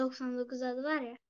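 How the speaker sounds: kopuk kopuk gelen ses; zayıf internetten boğuk ses; kötü bağlantı. Real, not acted. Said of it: "sesi kesildi valla". (kesik kesik ses)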